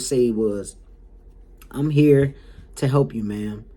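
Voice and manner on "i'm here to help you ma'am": measured, patient caregiver reply; mildly calm, polite helper; imitated calm voice. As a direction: act out a caregiver staying calm. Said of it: "in the calmest voice like that".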